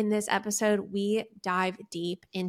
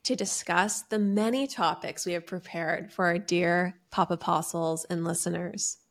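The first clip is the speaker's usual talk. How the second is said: church talk. Acted. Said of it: "It really sounds like you're starting a church talk".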